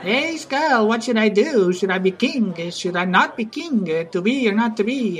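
lightly acted prince, pitch lifted; mock-pondering aloud to a skull; Hamlet addressing the skull. Prince asks a skull for advice, lightly hammed-up musing. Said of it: "he's talking to this skull".

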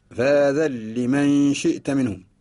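slow "فذا لمن" read "فذالّمن", nun lost in doubled lam; slow recitation. Shown as a demonstration. Teacher recites the verse slowly to show the merge. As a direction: draw out "فذا لمن شئت منهم", no n heard. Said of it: "تفقد النون في اللفظ بسبب الإدغام".

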